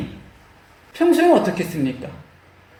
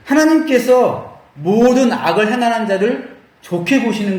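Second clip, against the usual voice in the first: acted defiant complaint, drawn out; contrary retort; 4 semitones higher than usual. Priests answering back to God, mock defiant complaint. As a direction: push back at God with slow, mild indignation. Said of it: "제사장들이 왜 이렇게 어깃장을 놓죠".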